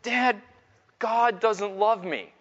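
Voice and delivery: high, slow mock-pitiful little boy; drawn-out, lightly voiced childish sorrow; imitated tearful child. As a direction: imitate a small son's woeful confession. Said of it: "And he starts bawling".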